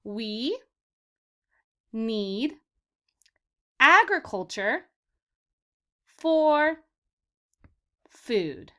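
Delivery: slow, word by word with long pauses. Shown as a demonstration. Teacher reads slowly so kids can repeat, word by word. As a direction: read "We need agriculture for food" one word at a time, pausing. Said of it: "I'm gonna read this one slower".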